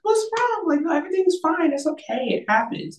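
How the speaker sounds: high-pitched, hurried comforting; retold reassurance. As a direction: replay soothing a boyfriend in a high, light voice. Retells reassuring seasick boyfriend.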